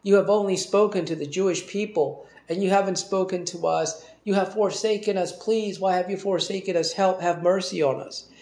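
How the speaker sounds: an understated, imploring cry to God; pleading cry. Acted. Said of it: "the Macedonian crying out for help".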